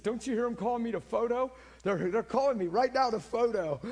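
high, loud, panicky excuse; nervous excuse. Retold or imitated. Nervous man making excuses.

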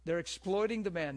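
ordinary talk

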